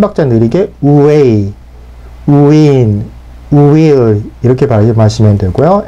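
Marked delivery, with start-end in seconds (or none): 0.8-1.5 way said oo-way with the lips pushed out; rounded W. Shown as a demonstration. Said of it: "우를 만드는 시간이 걸리기". 2.3-3.0 way said oo-way with the lips pushed out; rounded W. Shown as a demonstration. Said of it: "우를 만드는 시간이 걸리기".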